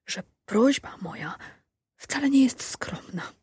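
put-on shy old mother confessing; old woman voice. A narrator's reading. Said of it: "szepnęła Maruda". (nieśmiały głos starej kobiety)

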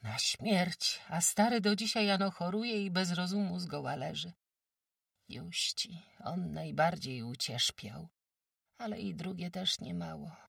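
a brisk countrywoman sizing up a sick guest; sturdy farmwife. Acted. Farmwife Kłębowa tells old Agata she's too weak, brisk.

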